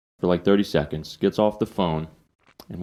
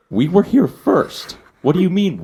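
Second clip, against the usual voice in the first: retold heated comeback in a high raised voice; exasperated retort; 11 semitones higher, 5 dB louder than usual. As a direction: push back at him, fed up. Arguing with the biker over parking.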